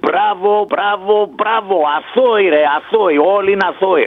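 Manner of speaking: slow, drawn-out mock bravos; sarcastic praise. Real, not acted. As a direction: stretch out each bravo in bitter irony. Sarcastic praise for court acquittals. (ειρωνικά, συρτά μπράβο)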